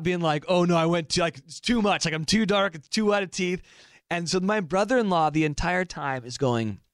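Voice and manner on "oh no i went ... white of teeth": higher, mildly panicked self-quote; retold freak-out. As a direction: replay fretting about the tan. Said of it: "I'm sitting there freaking out".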